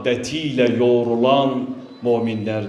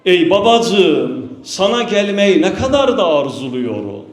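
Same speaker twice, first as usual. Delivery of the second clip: mild lament in a raised, rising-and-falling pitch; lamenting daughter; 4 semitones higher than usual. Retold or imitated. Fatıma speaks to her father at his grave, lamenting. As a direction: plead mournfully, as if imitating a grieving daughter. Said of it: "babasıyla konuşuyordu adeta".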